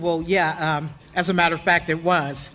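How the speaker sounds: a lightly voiced coy answer; mock humble brag. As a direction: play it cool but proud. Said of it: "I said".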